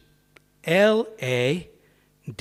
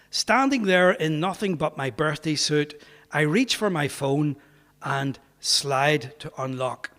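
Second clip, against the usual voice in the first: measured read-aloud from a memoir; story narration; 2 semitones higher than usual. A narrator's reading. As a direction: read the written page clearly and deliberately. Reads aloud from his book.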